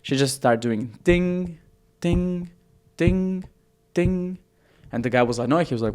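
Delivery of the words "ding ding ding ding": piano note ding. Retold or imitated. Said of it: "she just starts playing one key".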